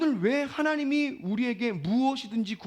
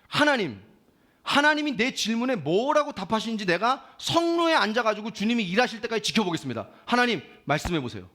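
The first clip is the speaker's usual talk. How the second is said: insistent, slightly louder challenge to God; defiant prayer; 2 semitones higher, 5 dB louder than usual. Acted. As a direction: press God for an answer. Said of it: "너무 대드는 기도죠".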